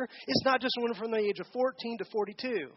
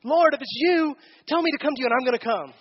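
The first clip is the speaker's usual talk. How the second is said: eager Peter; 3 semitones higher, 5 dB louder than usual. Retold or imitated. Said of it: "Peter says".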